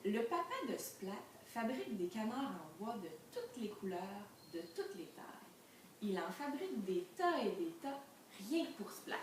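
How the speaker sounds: lively storybook narration with swooping tune; story reading. A narrator's reading. Teacher reading a picture book to the class, animated storytelling. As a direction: read it out clearly for children.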